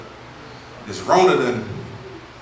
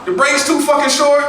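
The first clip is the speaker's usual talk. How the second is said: imitating his own whining, higher; a mock complaint, pitched up; whiny complaining; 10 semitones higher than usual. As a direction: whine like a little bitch about work. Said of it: "I was just complaining".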